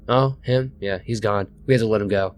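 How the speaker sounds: deadpan, no interest at all; flat. Retold or imitated. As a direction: say it flatly, like it's nothing. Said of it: "said really flatly".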